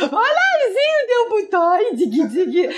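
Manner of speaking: high, cooing voice as if to a toddler, mocking; mock baby talk. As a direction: coo at the child like it understands nothing, tongue in cheek.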